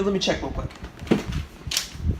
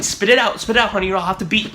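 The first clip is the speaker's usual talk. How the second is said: pushy dad voice, a bit louder; hammed-up demanding father; mock impatient parent; 3 semitones higher, 6 dB louder, faster than usual. Dad prodding his kid for a movie plot, mock impatient.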